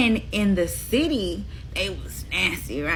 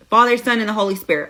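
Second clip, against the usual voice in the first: emphatic; 3 semitones higher, 6 dB louder, much faster than usual. Shown as a demonstration. Preacher hammering the Trinity home to doubters, loud and emphatic. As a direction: drive it home, "Father, Son" punched out. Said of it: "So if anybody tells you".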